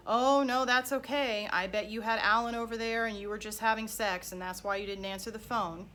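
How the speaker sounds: sugary fake-fine start, then a pointed jab; mock passive-aggressive. Ex-husband needling his wife over missed calls, mock passive-aggressive. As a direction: needle her while pretending it's fine. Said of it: "something very passive-aggressively like".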